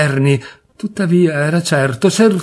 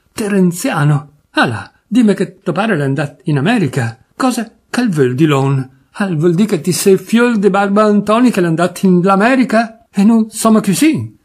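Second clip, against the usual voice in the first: Turin dialect rambling; 4 semitones higher than usual. Acted. Drunk cousin to Papiano, rambling in Turin accent. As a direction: ramble tipsily in broad Piedmontese.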